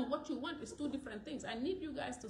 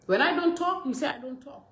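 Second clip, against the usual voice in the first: louder, heated retort; exasperated, voice raised; 12 dB louder than usual. Real, not acted. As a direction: push back hard at the critics. Retort against critics, raised voice.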